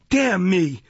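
high, loud exclamation; outraged cry. A narrator's reading. Old gentleman stung by the magistrate's lecture, crying out. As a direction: burst out indignantly. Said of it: "cried the old gentleman".

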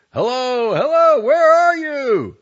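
very high, loud urgent call. A narrator's reading. Husband calling urgently through the house, loud high call. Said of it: "the husband calling to her".

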